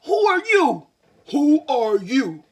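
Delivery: loud high echoing call. Acted. Echo answers the lion from the well, loud and high. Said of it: "was the echo that came back".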